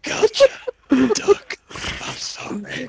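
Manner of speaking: high, badly faked character voice; horrible impression. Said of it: "I'm horrible at the impressions".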